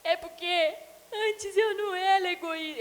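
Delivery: put-on high, teary little boy's voice breaking into a sob; mother imitating her tearful son, high and teary; small crying boy. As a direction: voice the four-year-old close to tears.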